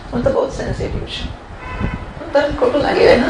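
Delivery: quick, breathy mock of a touchy person; a hint of a touchy complainer; mock touchy self. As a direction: toss it off like a self-pitying devotee.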